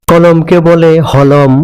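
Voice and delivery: কলম said as হলম, k turned to h; Chittagong dialect pronunciation. Shown as a demonstration. Teacher showing the Chittagong k-to-h shift in হলম. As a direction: open হলম with a breathy h. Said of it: "হয়ের মতো উচ্চারণ করে".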